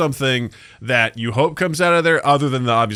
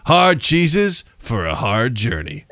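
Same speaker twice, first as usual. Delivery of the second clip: chipper 1950s ad; much slower than usual. Retold or imitated. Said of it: "just the slogan for a commercial".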